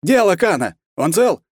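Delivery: high, loud demand on the radio; furious, hysterical. A narrator's reading. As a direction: rage bordering on hysteria. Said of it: "между яростью и истерикой".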